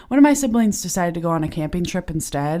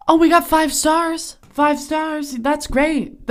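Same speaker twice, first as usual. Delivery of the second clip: thrilled surprise; 8 semitones higher, slower than usual. Real, not acted. Finds five-star rating live.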